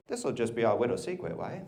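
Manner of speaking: imitating a child's mangled speech; baby talk. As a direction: say little as "widow", like a small child. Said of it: "it wasn't baby talk".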